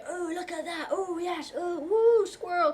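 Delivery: high, bouncy, bursting with delight, loud woo; squeaky high excitement rising to a loud whoop; bubbly excited self. Retold or imitated. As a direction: play your hyper giddy self spotting a squirrel. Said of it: "very loud, very".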